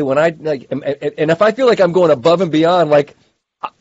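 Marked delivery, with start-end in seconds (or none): 3.6-3.7 higher and fast, half-joking plea for credit; wanting praise. Real, not acted. Husband confessing he wants praise for chores, eager and fast. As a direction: rush it out, begging for a blue ribbon. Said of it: "I want a little blue ribbon".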